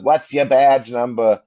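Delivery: lightly imitated drunk Australian accent; slow, put-on Aussie accent challenge; mock Australian accent. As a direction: mimic an Australian accent, drawn out. Quoting a drunk Australian heckler.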